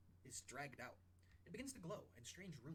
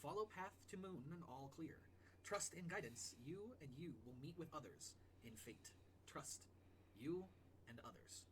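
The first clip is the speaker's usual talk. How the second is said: slow, solemn scroll reading; measured game master's oracle; prophecy reading; slower than usual. Acted. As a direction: intone an ancient prophecy with long, weighty pauses. Reads out a mysterious scroll.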